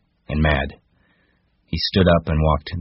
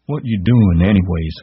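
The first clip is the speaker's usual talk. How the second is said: loud cry, higher; cried out; 4 semitones higher, 6 dB louder than usual. A narrator's reading. Lenny crying out at Crooks, alarmed. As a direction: demand it in alarm. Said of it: "he cried".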